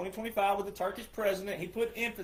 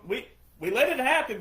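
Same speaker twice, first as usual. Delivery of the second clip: normal talking voice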